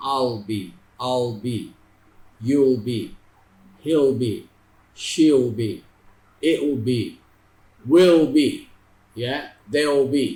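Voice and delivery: each contraction said as one clipped syllable before be; contraction drill. Shown as a demonstration. Teacher drilling students on contracted future forms. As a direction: blend will into the pronoun, tidy and clear. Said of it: "आपने ऐसे बोलना है".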